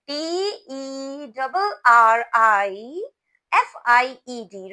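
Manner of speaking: loud, slow letter by letter; slow spelling for repetition. Shown as a demonstration. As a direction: spell "terrified" slowly and loudly for the class to repeat. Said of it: "Repeat after me".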